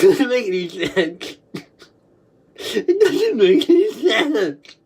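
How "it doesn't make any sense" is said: slow, laughing through tears; words wobbling with laughter; laugh crying. Real, not acted. Helpless laughter.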